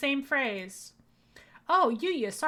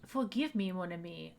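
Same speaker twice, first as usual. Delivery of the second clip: bad French accent; 5 dB quieter than usual. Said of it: "my bad French accent".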